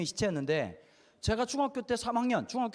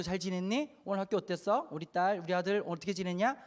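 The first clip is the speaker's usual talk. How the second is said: gentle dad. Pretend. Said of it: "이렇게 말하는 아빠".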